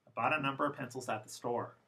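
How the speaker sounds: fast, "of" and "a" reduced to schwa; informal defocused. Shown as a demonstration. Teacher demoing informal English to students. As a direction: run "I bought a number of pencils at the store." together with schwas.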